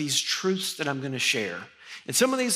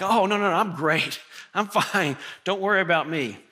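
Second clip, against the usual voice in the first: breezy insistence; 2 semitones higher than usual. Retold or imitated. Insisting he's fine.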